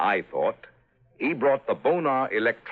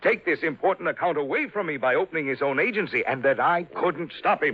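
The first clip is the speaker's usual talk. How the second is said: rising outrage; 6 semitones higher than usual. Acted. Father raging about son-in-law.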